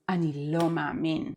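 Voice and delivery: devastated intonation on a disbelieving reaction. Shown as a demonstration. Man reacting to devastating news, devastated. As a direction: say it crushed by bad news. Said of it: "It is devastated intonation".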